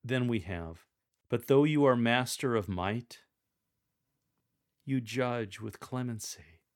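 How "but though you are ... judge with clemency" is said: strong and louder opening. Shown as a demonstration. Reader proclaiming God's might, strong tone. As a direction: say it with strength. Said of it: "Use a strong tone of voice".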